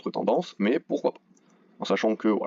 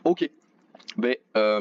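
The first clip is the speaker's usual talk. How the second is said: just swallowed a sip; while sipping a drink; much slower than usual. Real, not acted. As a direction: talk right after a drink. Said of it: "je bois un coup".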